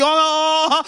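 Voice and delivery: drawn-out high "oh"; imitated labor moan. Telling what signalled she was going, mock labor moan. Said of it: "Once you hear the".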